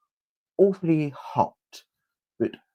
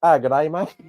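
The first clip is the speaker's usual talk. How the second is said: bad Australian accent; 5 dB louder than usual. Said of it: "That was not Australian".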